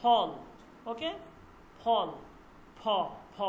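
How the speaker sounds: "ফল" with a p given a little push of air. Shown as a demonstration. Teacher explaining the push on p, "ফল" with aspirated ph. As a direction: burst into "ফল" on an aspirated ph. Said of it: "পটাকে একটু ধাক্কা দেয়".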